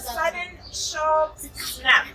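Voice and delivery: put-on reading a picture book aloud to a child; storybook narration, gently paced; story reading. A narrator's reading. Mother reading a jungle story to her child.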